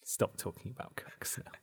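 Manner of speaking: hushed, whispered plea to stop; mock hushing. Co-host hushing friends who keep on joking, hushed whisper. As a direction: whisper it as if shushing someone.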